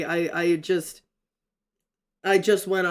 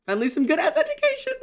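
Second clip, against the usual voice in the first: high, fast burst of delight; excited squeal; 13 semitones higher, 4 dB louder, faster than usual. Acted. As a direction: shriek it out like you finally got what you wanted. Reads out chat message, excited.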